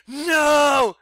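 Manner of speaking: loud high scream. Retold or imitated. Sleepwalker screaming at the attacker, loud and high. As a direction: scream it to stop him. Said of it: "when I was screaming".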